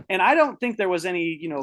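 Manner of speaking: plain reading voice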